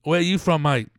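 put-on Cockney accent. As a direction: ask it as a jokey Cockney. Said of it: "working on my Cockney accent".

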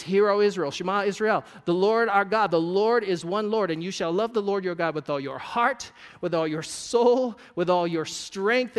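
loud, slowing proclamation; solemn scripture recitation. Acted. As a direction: proclaim the Shema with weight. Reciting the Shema.

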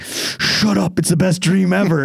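high, gleeful shut-up; playful retort. Retold or imitated. Answering his wife's teasing about his fantasy, high and playful. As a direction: defend the fantasy with mock indignation.

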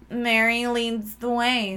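slow, drawn-out mock-mystical quote; recited dream voice. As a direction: intone it slowly like a vision. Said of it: "And she went".

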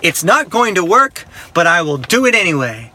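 mildly exasperated surrender; reluctant, mock-resigned concession; retold giving in. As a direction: give in grudgingly, spacing it out. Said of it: "I finally gave up and I said".

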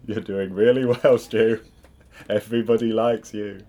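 slow, ghostly message voice; Marley's Ghost voice. Acted. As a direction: intone it like a haunting ghost. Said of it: "I said it like Marley's Ghost".

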